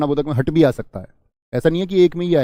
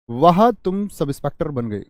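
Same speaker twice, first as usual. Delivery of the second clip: खुशी; slower than usual. Shown as a demonstration. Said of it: "खुशी का भाव पैदा हुआ".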